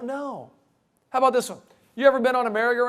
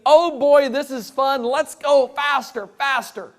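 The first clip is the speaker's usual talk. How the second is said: put-on higher, giddy kid voice; a touch of a thrilled fourth grader, higher; gleeful kids; 3 semitones higher, 4 dB louder, slower than usual. Imitating kids on a merry-go-round, higher and giddy. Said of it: "the kids during phase number one are gonna be screaming".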